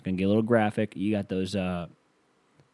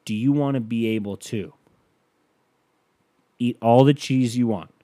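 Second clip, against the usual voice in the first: commercial voice; 3 semitones higher, 7 dB louder than usual. Shown as a demonstration. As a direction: sell the cheese dream to camera. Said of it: "this is what it would sound like".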